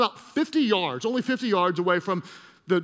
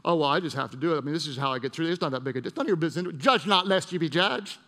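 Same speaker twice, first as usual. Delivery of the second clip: imitating someone making excuses; excusing oneself; 4 semitones lower, faster than usual. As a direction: brush it off with acted excuses. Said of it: "We excuse ourselves".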